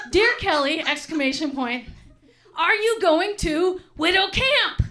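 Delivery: mock enthusiastic, slow and lilting, laughing through it; gushing letter voice. A widower's letter read with mock gushing cheer. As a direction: read it like a thrilled pen pal. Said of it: "very big on the exclamation points".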